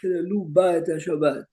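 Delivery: "Chilelu ba et Shabbat." with "ba" picked out and stressed. Shown as a demonstration. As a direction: point the students to the word "ba". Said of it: "Larry is medayek very well".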